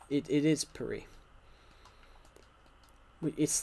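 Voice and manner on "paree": Paris said "puh-REE", silent s; French pronunciation. Shown as a demonstration. Insisting on the French way, Paris as "puh-REE". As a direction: drop the s of Paris and stress "ee". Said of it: "But yeah, French".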